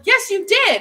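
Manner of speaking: retold insistent reply. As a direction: push back like the delivery guy. Retold argument, delivery guy's side.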